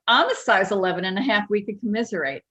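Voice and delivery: quick imitated Jersey mom; mock Jersey-accented mother. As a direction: chime back in a put-on New Jersey accent. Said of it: "in her Jersey's accent".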